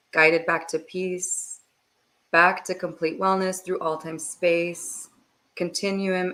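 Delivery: steady, measured blessing with pauses; meditative prayer. Real, not acted. Guide asks blessing for departed souls, calm prayerful delivery. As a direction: pray evenly, phrase by phrase.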